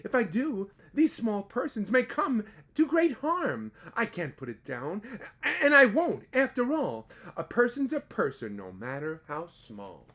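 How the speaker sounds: pleading, firm big-hearted elephant; Horton the elephant. Acted. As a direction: Horton standing firm for the tiny people. Horton's lines read aloud.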